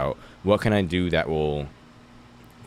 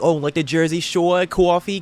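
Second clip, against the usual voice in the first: high, loud ditzy outsider voice; mock the clueless out-of-stater; 12 semitones higher, 4 dB louder, slower than usual. Outsider hearing you're from Jersey, mocking voice. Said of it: "they're like".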